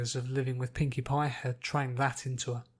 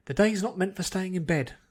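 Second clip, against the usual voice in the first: a bit louder, a touch higher, curt command; firm no-nonsense shove out of bed; barked order; 5 semitones higher, 4 dB louder than usual. Acted. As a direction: bark it at a lazy sleeper. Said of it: "the woman had barked".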